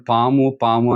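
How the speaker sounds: slowly drawn-out పాముని పాము, with no urgency; slow calling. Shown as a demonstration. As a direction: say పాముని పాము lazily, as a feeble warning. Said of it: "నిదానంగా పిలిస్తే". (నిదానంగా పాము అని పిలవడం)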